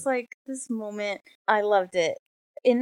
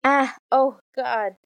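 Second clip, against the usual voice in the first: pained cry dropping off, read aloud; growled groan; 5 semitones higher, 5 dB louder, slower than usual. A narrator's reading. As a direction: growl it out, lightly acted. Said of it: "and I growled".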